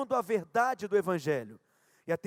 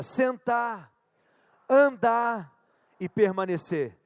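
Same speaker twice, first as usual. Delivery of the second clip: louder; 4 dB louder, slower than usual. Shown as a demonstration. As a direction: call it out stronger. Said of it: "Diga mais forte".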